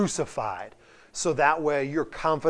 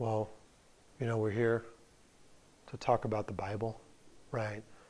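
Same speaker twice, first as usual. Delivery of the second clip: put-on flat monotone delivery, much quieter; 4 semitones lower, 8 dB quieter than usual. Retelling a preacher invited to speak at a revival, mimicking a monotone preacher. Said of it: "In a very monotone way".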